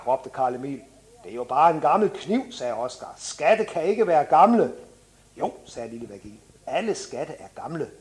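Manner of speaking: put-on animated children's book narration; story reading. A narrator's reading. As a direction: read a children's story with lively dialogue. Reads from children's book aloud.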